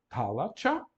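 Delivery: "talacha" with TCH in the last syllable; "talacha" ending in affricate tcha; affricate pronunciation. Shown as a demonstration. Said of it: "ao som africano, tch".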